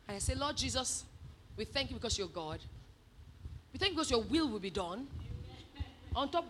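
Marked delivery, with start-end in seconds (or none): 0.4-5.1 low, hushed praying; subdued retold prayer. Asked to pray on the wedding day, soft low prayer. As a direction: pray it softly and carefully, voice held down. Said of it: "said she come and pray".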